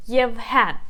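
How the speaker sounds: Yevhen stressed on its second syllable, yev-HEN. Shown as a demonstration. Teacher confirming the rule for learners, Yevhen with stress on the last syllable. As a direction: land firmly on "hen" in Yevhen, then fall. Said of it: "we put the stress on the second syllable".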